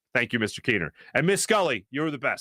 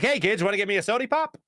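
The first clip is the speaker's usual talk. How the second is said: put-on old-time soda-fountain voice; 6 semitones higher than usual. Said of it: "stepped into a time machine".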